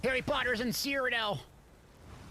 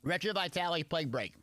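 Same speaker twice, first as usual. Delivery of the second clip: chewing between words; messy loud eating. Real, not acted. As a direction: mouth full of food. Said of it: "Sorry, I'm eating".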